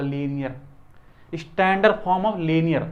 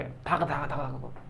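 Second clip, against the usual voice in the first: low, soft rapid-fire gun noise; imitated gunfire; 4 semitones lower, 11 dB quieter, much slower than usual. Shown as a demonstration. Teacher showing students how fast they'll fire through questions, imitated gunfire. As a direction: rattle off bullets under your breath. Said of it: "बंदूक से गोली निकलती है".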